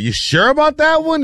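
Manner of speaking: high-pitched questioning voice; imitated skeptical query; Warren Buffett. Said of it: "Warren Buffett is like".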